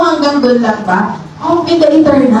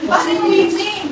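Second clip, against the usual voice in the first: mock weeping; 6 semitones higher, 6 dB quieter than usual. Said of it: "Paano yung ano, yung weeping?".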